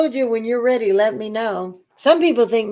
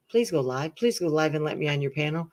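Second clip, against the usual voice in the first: mock begging; 3 dB louder than usual. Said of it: "like, begging people".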